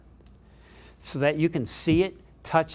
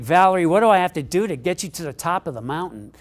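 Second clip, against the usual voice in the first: exasperated plea; 3 semitones higher, 7 dB louder, faster than usual. Retold or imitated. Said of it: "and he's like".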